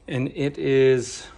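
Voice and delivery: winded, short of air; out of breath. Real, not acted. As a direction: talk while catching your breath. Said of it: "I'm a little out of breath here".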